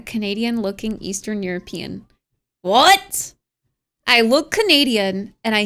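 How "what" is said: higher, louder rising question; taken aback, voice jumping up; surprised. Real, not acted. Streamer hears a viewer's accent guess, surprised.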